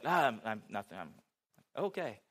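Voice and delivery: lightly voiced grumpy old man, drawn out and low; a hint of a gruff old man, slow on okay; grumpy old man mumble. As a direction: mumble it like a sullen old stranger brushing you off. Grumpy old stranger's retold reply.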